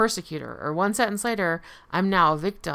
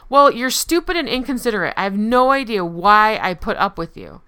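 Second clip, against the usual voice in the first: acted persecutor insult; 6 dB louder than usual. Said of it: "a clear persecutor statement".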